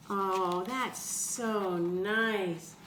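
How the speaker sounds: slow drawn out tender remark. Acted. Storyteller touched by the neighbors' gift, slow and tender. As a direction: linger on it, moved.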